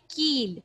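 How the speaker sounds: کیل said keel with a held ee; long ee sound. Shown as a demonstration. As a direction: stretch the ee vowel in کیل. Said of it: "کیل میں کس کی sound آ رہی ہے؟".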